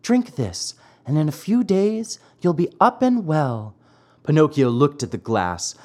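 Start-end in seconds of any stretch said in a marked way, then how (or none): 0.0-3.7 higher, loving fairy voice; tender storybook fairy urging a patient to drink. A narrator's reading. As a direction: coax lovingly, pitched up. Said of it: "said lovingly to him".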